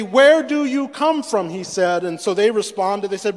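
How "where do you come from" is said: higher, drawn-out, demanding question; rough questioning. Acted. Joseph questions the brothers who bowed before him, roughly. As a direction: question them roughly, stretching it out. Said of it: "he spoke to them roughly".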